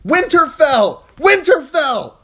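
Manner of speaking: high, full-throated war cry; battle cry shout. A narrator's reading. Arya shouting as she cuts down an attacker, full battle cry.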